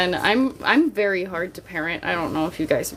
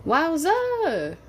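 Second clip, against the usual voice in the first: wowza; 8 semitones higher than usual. Real, not acted. Reacts to chat.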